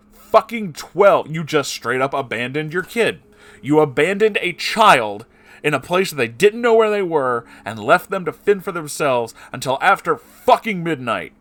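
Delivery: loud, high enraged rant; furious outburst. Real, not acted. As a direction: shout at him in raw fury. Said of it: "I just want to repeat".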